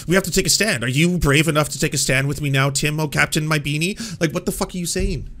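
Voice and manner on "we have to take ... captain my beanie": mocking impression of Crowder. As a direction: imitate a self-important call to arms. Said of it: "You're sitting there and being like".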